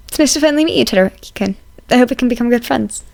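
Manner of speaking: a cheerful student, eager to reassure; eager young student. Acted. Izuku greets Todoroki.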